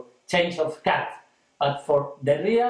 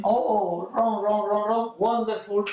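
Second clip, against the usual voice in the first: audience crying out; 3 semitones higher than usual. Retold or imitated. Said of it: "people, ah, cry".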